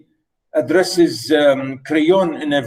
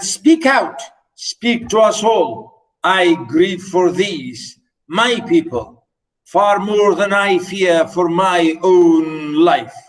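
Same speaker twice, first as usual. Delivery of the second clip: dramatic reading; 2 semitones higher, slower than usual. Acted. Teacher reading Oedipus telling Creon to speak openly, dramatic reading. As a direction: declaim Oedipus's command grandly.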